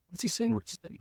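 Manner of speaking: high, confused whispering people; puzzled crowd. Retold or imitated.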